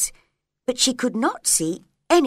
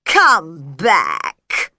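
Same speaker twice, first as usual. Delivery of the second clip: louder call; calling after; 3 semitones lower, 8 dB louder than usual. A narrator's reading. Caterpillar calls to departing Alice, louder call. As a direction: call out to someone leaving. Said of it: "called after her".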